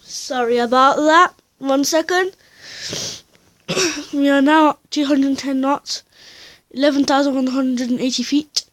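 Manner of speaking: breathless after running upstairs; out of breath, talking between breaths. Real, not acted. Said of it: "sorry, I'm out of breath".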